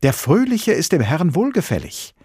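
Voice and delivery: high, loud jubilant proclamation; calling out. A narrator's reading. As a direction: cry it out like an exultant preacher. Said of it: "rief er".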